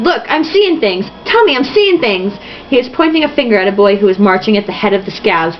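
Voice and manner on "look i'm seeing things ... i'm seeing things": mock shout. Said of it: "Spot Conlon shouted".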